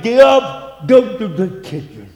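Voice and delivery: loud, high order that trails back to normal; stern command. Retold or imitated. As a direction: bark it at the wife, then settle. Husband orders wife, preacher retelling.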